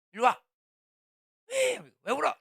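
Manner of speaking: imitating a mother yelling at her crying kid; scolding mother. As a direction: yell it like a fed-up mother.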